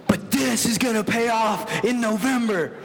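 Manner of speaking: mock the coach's promise in a sing-song; imitating the coach. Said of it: "And he kept saying".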